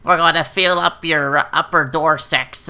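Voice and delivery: put-on voice of a handsy chiropractor; hammed-up creepy professional. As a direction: imitate a practitioner relishing it too much. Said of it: "some chiropractors are like".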